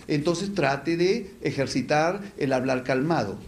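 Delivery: slow, even demo of speaking calmly; unhurried, deliberate delivery; calm speech. Shown as a demonstration. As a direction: stretch out "calmado" as if showing calm talk. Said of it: "Si habla demasiado rápido".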